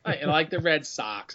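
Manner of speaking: slow demonstrated Boston accent; drawn-out Boston accent. Shown as a demonstration. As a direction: take your time in a Boston accent. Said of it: "That sounds, that's Boston".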